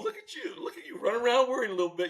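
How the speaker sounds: high, laughing mock tease; teasing laugh. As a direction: poke fun at a worried friend, chuckling. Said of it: "He's laughing 'cause he's going".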